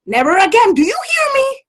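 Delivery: high, loud, insistent demand; stern scolding. Acted. Mother ordering her son never to vanish again, stern. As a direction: make him promise, sharply.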